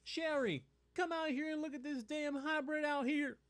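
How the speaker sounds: man calling his wife to see a hybrid, loud hick holler; yokel calling out. Pretend. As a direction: holler for Sherry like a country neighbor. Neighbor calling wife outside.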